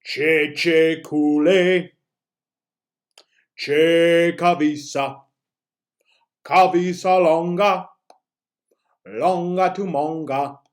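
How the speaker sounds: teacher demoing the chant slowed way down. Shown as a demonstration. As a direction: stretch every syllable of the chant out. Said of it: "let's slow it down a little".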